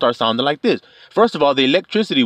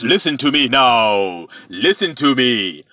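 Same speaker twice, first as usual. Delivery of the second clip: boastful dragon; 3 semitones lower, slower than usual. Retold or imitated. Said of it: "He was talking all".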